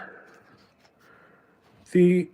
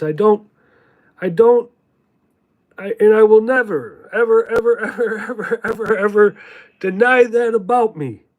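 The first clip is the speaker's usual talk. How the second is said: emphatic vow; 4 semitones higher, 4 dB louder than usual. Real, not acted. Vowing never to deny heritage.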